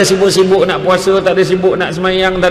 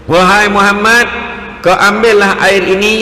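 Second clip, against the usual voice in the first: Jibril; 3 semitones higher than usual. Retold or imitated. Angel instructs the Prophet with the water, solemnly commanding. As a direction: proclaim each phrase, drawing out the endings. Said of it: "dia kata".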